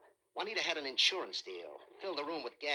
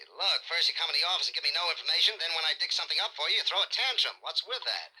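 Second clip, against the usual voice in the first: fast, louder, exasperated telling-off; detective scolding a hysterical client; irritated scolding; 2 semitones higher, 4 dB louder than usual. Acted. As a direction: rattle off the complaint, rising to a peak on tantrum.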